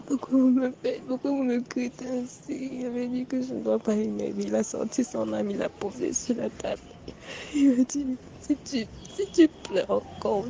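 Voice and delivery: ordinary talk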